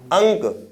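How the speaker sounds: अंक with a full ng sound through the nose; अंक, the dot sounded as nasal ng; nasal anusvara. Shown as a demonstration. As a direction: say अंक as ank, nasal consonant before k. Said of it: "नाक से हो रहा है".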